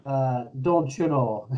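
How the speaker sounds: slow, lilting Irish brogue; crazy Irish accent. Acted. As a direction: put on a thick Irish accent. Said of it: "a crazy Irish accent".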